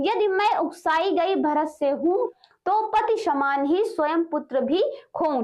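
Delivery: slow, deliberate reading of poetry; measured poem reading, pausing between lines; verse recitation. Acted. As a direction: draw out each phrase of the verse. Reads verse aloud.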